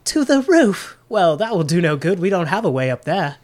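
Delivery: halfling clerk, puzzled. Acted. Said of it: "a portly halfling".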